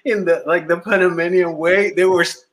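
normal talking voice

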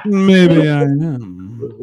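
very slow, drawn-out seductive tease; mock-seductive butler. Host teasing back after the seduction remark, mock-seductive drawl. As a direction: stretch it out as a playful come-on. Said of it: "if he was trying to seduce you".

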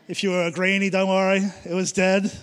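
joking reassurance. Real, not acted. Joking aside to greenies.

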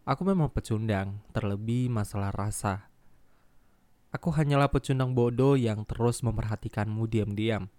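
emotional letter reading. Acted. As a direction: read it like a tender confession. Reads listener's letter aloud.

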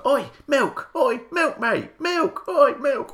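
high repeated calls; shouting out. Retold or imitated. Calling after a musician on the street, high repeated shout. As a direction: yell his name until he turns round. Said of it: "walk past".

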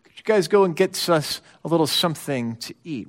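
soft, offhand, eyes on the paper; distracted request. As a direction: mumble the ask without looking up. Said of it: "as though he's reading the paper".

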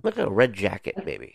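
hoarse, croaky throat; talking through a sore croaky throat. Real, not acted. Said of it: "Is this part of your croaky voice?".

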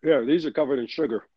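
chewing while talking; smacking on a sticky gummy; mouth full. Real, not acted. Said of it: "Can you hear me smacking?".

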